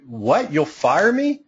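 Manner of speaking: high wide-eyed disbelief; mock surprise. Client hearing they could be fired, mock wide-eyed surprise. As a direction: act out the client's shock. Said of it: "they'll look at you with big wide eyes and go".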